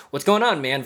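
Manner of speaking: loose, high, easygoing bro greeting; casual greeting. Retold or imitated. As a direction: toss it off like to a buddy. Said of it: "Sometimes it can be just as simple as, like".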